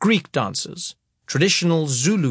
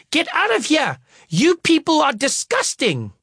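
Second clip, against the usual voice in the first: livid teacher; 12 semitones higher than usual. Retold or imitated. Teacher scolding the performers, mock outraged. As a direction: play a furious teacher, dragging words out. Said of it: "teacher ordering them out".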